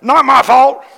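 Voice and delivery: put-on very high, loud childish protest; hammed-up tantrum voice; foot-stomping whine. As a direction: whine like a kid stamping his foot. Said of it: "That's how I felt".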